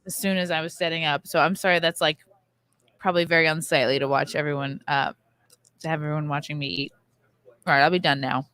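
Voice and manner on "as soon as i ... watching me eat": talking while chewing; words round a mouthful of food; chewing noisily. Real, not acted. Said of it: "I'm so sorry I'm eating".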